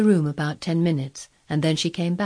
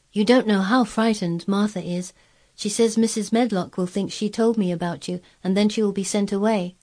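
lightly voiced girl explaining; a little higher, explaining a worry; hint of an earnest child; Mary; 4 semitones higher than usual.

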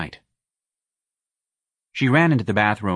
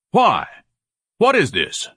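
frightened; 10 semitones higher, 5 dB louder, slower than usual. A narrator's reading. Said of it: "eyes flashed with fright".

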